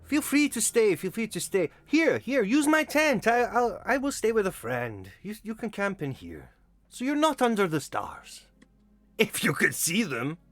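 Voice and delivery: high eager welcoming voice; friendly host voice. Acted. GM voicing friendly Vasanti host.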